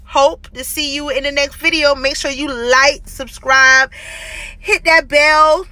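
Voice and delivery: speaking around new braces; slight lisp from braces; talking with braces. Real, not acted. Seen 5: Metal braces clearly visible on teeth whenever mouth opens.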